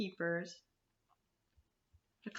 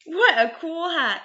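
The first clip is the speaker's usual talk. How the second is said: excited snake; 6 semitones higher than usual. A narrator's reading. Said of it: "cried the snake".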